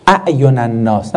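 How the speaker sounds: اعین الناس with the hamza stopped clearly; Quran phrase pronounced. Shown as a demonstration. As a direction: say اعین الناس with a careful glottal stop.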